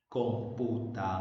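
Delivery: "Computadora" broken up, weight on DO; com-pu-ta-DO-ra, "Computadora" in measured syllables; stress on DO. Shown as a demonstration. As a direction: test the accent on DO in "Computadora". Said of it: "debo hacer es encontrar el acento".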